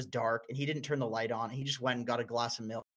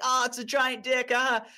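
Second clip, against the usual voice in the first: high, loud mock squeal of delight; mock giggly woman; 9 semitones higher, 6 dB louder than usual. Mocking women laughing at sex store.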